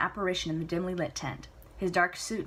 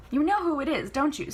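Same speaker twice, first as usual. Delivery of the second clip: higher, louder daughter pushing back; spirited Celia; 8 semitones higher, 5 dB louder than usual. Acted. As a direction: argue playfully with Papa. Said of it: "Celia asks".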